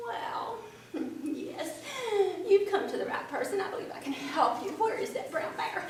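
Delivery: amused quick fox, laughing through it; sly fox chuckles and agrees; chuckling fox. A narrator's reading. Fox answers rabbit with a sly chuckling voice.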